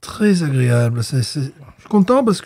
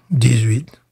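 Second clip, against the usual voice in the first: whispered; 3 semitones lower than usual. Real, not acted. Repeating his score quietly.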